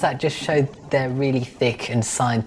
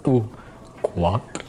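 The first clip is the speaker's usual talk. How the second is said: French duck accent; 3 semitones lower than usual. Shown as a demonstration. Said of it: "a French one would be like".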